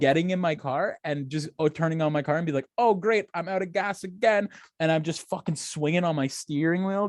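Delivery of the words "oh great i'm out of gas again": higher-pitched, exasperated retelling; mock fuming at bad luck; retold exasperation. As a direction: act out being fed up, without shouting. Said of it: "just blood red mad".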